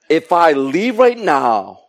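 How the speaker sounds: slow, laughing worried thought; mock anxious inner voice; nervous laugh. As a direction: giggle anxiously over the words.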